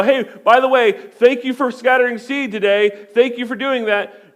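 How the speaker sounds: mock grateful ground. Ground thanking farmer, imagined.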